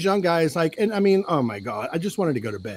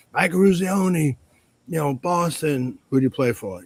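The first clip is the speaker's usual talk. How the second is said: Mike Eruzione. Retold or imitated. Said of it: "Mike Eruzione says".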